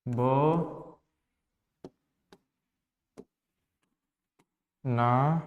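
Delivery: ब, ना, ना with very long gaps; syllable by syllable. Shown as a demonstration. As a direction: dictate बनाना one slow syllable at a time. Splitting banana into written syllables.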